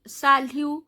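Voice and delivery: "Salut" said as "sa-lu"; "Salut" ending on the vowel; silent final T. Shown as a demonstration. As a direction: say "Salut" without any T sound. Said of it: "I'm not pronouncing the T".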